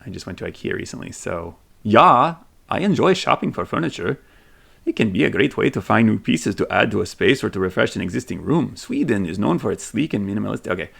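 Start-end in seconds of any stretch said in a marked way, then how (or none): 1.8-10.7 put-on Swedish accent. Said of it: "not the best Swedish accent, but he tried".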